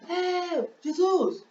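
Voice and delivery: high, held call without real volume; mock shout. Blind man calling out to Jesus, high mock shout. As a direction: act out calling to someone far off. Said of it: "E tô gritando pra que lado".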